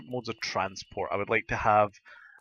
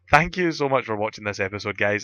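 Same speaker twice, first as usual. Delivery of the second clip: gruff voice from a sore throat; talking through a sore throat; 4 dB louder than usual. Real, not acted. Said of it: "my gruff, sore throat voice".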